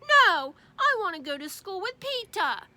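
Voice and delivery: put-on loud high little boy's shout; stubborn kid's shout; child shouting. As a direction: yell it from behind the door.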